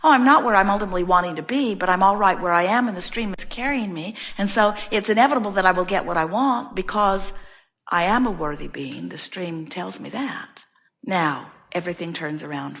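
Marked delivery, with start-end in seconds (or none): 0.0-10.6 contented acceptance. Retold or imitated. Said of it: "in the attitude of".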